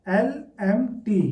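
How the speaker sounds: एल एम टी said slowly as separate letters; slow letter-by-letter spelling; spelled letter by letter. Shown as a demonstration. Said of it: "limited को एल एम टी कई लोग लिखते हैं".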